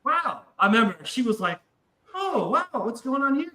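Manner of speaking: put-on high, surprised girlfriend; a lightly voiced startled girlfriend; mock surprised girlfriend. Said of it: "she's like".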